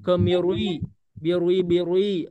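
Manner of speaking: "kemirui, birui" dengan ri tebal dibuat-buat; ri ditebalkan dibuat-buat. Shown as a demonstration. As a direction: contohkan salah "birui" yang dibuat-buat. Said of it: "dibuat-buat gitu ya". (contoh salah yang dibuat-buat)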